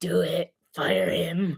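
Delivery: low, creaky, drawn-out voice. Acting out a team urging another to fire its coach: Palpatine voice. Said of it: "the scene from Star Wars where Palpatine's behind him".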